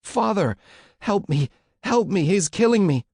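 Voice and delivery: very high, loud desperate cry; panicked high-pitched screams; screaming for help. A narrator's reading. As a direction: scream for your father to save you. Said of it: "started screaming in a voice".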